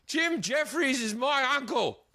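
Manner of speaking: lightly voiced dopey nephew bragging. Drunk nephew boasting at the bar door, slow mock-dumb voice. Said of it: "he goes".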